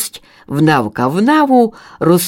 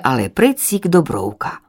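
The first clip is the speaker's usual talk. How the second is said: plain reading voice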